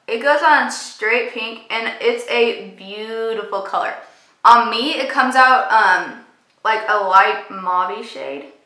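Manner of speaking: talking while doing lipstick; while putting on lipstick. Real, not acted. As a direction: lips stretched applying lipstick. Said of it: "It's really hard to talk and do lipstick".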